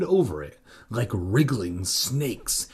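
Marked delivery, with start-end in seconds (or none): 1.8-2.7 a drawn-out hissing snakes. Pretend. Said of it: "That's what snakes sound like".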